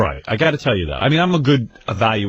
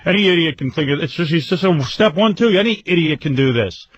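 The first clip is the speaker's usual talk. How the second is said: higher, mildly exasperated mock scolding; imitating cursing father; 5 semitones higher than usual. Imitating dad berating mom at square dancing, mildly exasperated. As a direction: grumble like an impatient dad, lightly acted. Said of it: "under his breath cursing her out and yelling at her".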